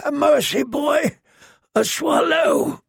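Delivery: high, slow, begging plea; desperate caged man. Acted. Fat prisoner begs the girl for a swallow, high and slow. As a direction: drag out the plea for mercy. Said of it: "the fat man called down".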